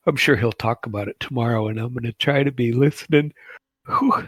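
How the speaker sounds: talking through a yawn; sleepy, yawning while speaking. Real, not acted. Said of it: "sorry to be yawning".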